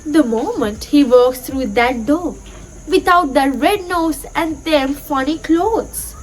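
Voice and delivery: measured poem reading with lightly lifted pitch; gently expressive classroom verse reading; poem recitation. Acted. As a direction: recite it line by line, pausing between phrases.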